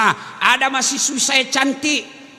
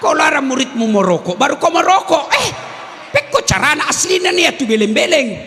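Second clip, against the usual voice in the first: loud, higher scolding of the teacher; louder, higher mock outrage at a smoking teacher; mock angry rebuke; 4 semitones higher, 4 dB louder than usual. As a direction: call out the hypocrite loudly.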